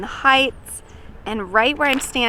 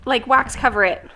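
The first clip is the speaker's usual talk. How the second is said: sighing; 4 semitones higher, 3 dB louder than usual. Real, not acted.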